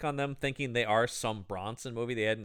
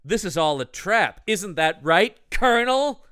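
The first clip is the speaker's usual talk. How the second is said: rising, louder taunt; smug taunting woman; 4 semitones higher, 4 dB louder than usual. Retold or imitated. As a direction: taunt the villain, all confidence. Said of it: "she goes".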